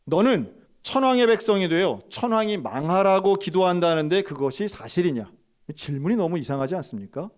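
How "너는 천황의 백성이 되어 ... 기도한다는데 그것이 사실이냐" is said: louder, pointed questioning; accusing interrogator. Retold or imitated. Officer accusing the pastor of praying, raised and accusing. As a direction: hurl the accusation at him.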